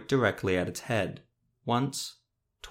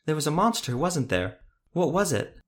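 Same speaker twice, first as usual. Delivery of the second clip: higher pitched, eager questions; eager boy; 6 semitones higher than usual. A narrator's reading. Boy asking the witcher about the monster, higher and eager. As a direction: press him like a curious kid.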